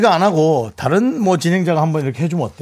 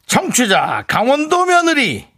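dramatic announcement; 5 semitones higher than usual. Acted.

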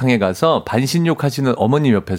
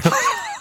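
sudden high shriek of laughter; burst of laughter; 4 dB quieter than usual. Real, not acted. Listener reacts to balloon story.

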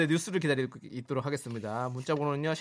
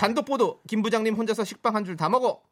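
parody news anchor; 6 semitones higher, 3 dB louder than usual. Shown as a demonstration. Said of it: "뉴스톤으로 소개해서".

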